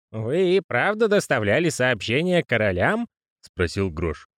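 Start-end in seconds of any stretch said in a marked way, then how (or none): 0.1-3.1 high character voice. Acted. Postman voice.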